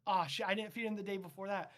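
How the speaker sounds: quick, rising panic on Aw, shit. Acted. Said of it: "the two science interns go".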